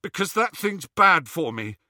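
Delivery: put-on tense, pleading young man; plead, rattled and scared; anxious Ron.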